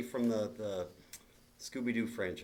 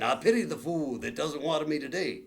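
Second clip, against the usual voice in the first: Mister T impression; 3 semitones higher, 4 dB louder than usual. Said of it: "talking Chia pet".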